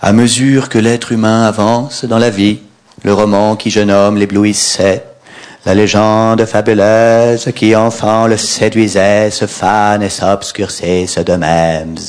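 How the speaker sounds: lent et solennel, voix lyrique; récite comme un prophète; poète déclamant. Retold or imitated. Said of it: "Le poète". (déclamation lente et lyrique)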